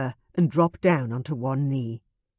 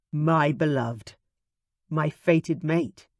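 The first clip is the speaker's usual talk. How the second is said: tender; slower than usual. Acted. Tender marriage proposal.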